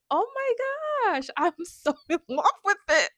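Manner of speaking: high, loud squeal into a laugh; squealing with delight. Real, not acted. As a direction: gush like a fan. Gushing over the mood board.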